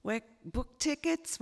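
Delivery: imitated American relatives announcing a visit; American accent. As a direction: put on an American accent for the good news. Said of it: "it's the in-laws from America".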